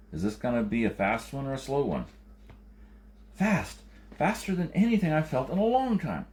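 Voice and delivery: put-on high, urgent, pleading old quake man; anxious quake man. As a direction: push the danger, high and pressing. Quake man urges urgent launch.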